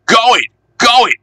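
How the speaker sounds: high excited urging; shouting. Acted. Passengers urging Bertie on with excited shouts. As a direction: cheer the bus on. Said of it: "they shouted".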